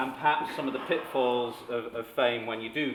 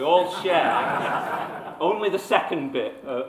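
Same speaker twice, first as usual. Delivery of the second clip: chuckling through the words, slower; laughing; 5 semitones higher, 7 dB louder, much slower than usual. Real, not acted. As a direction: laugh it out as you tease the crowd. Joking about shared flawed character.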